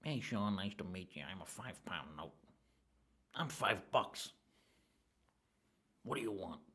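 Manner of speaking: a lightly voiced five-pound note; talking fiver. Fiver in his pocket greets him, lightly voiced. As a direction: give the banknote a small cheeky voice. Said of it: "it would say".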